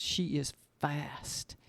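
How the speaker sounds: slow, breathy whisper of awe; awed whisper about the dog; whispered aside. Real, not acted. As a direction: hush it like a secret. Marvelling at her dog's speed.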